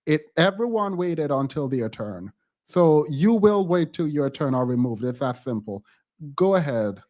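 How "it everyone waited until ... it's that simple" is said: stern warning. Real, not acted. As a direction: lay down the rule. Host scolds interrupter.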